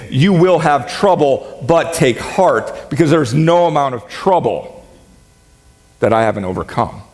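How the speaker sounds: slow down and lean into take heart; sincere, weighted promise of peace; slow, earnest promise. Retold or imitated. Pastor voices Jesus promising comfort, slow and sincere. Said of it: "what he's saying is".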